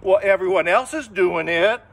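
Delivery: loud protest; a loud child's defiant protest. Acted. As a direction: protest back at the parent, loudly. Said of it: "child answering parent".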